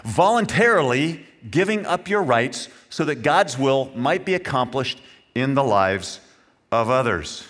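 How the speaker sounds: measured reading broken into phrases; deliberate re-reading. Shown as a demonstration. Preacher repeating his definition for the congregation, deliberate and phrased. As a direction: read it out phrase by phrase, pausing between. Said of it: "let me read that again for you".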